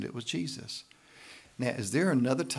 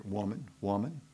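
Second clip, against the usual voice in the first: tender; 2 semitones lower, 4 dB quieter than usual. Acted. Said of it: "this is a term of endearment".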